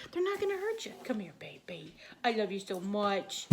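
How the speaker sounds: whispered reassurance to a pet. Real, not acted. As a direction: soothe the dog in a whisper. Whispering to the dog.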